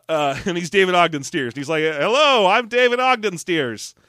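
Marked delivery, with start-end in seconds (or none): 1.8-4.0 slow, grand self-introduction; pompous name intro. Retold or imitated. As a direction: announce the name with mock gravity. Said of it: "I say it like that".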